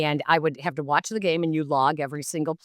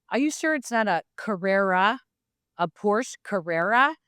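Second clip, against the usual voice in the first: teasing Saunders; 5 semitones higher than usual. Retold or imitated.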